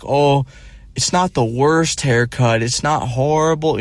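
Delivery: a hint of aunt's fake comfort; mild sing-song reassurance; mimicking aunt. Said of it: "my aunt was like".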